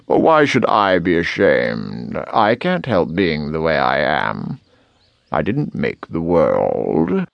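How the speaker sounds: a hint of smug indifference; unashamed fox. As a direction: shrug it off at leisure. Fox shrugs off the scolding.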